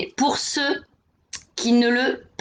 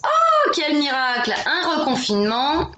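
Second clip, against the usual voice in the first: ironique; 5 semitones higher than usual. Real, not acted. Annonce du reconfinement, ironie.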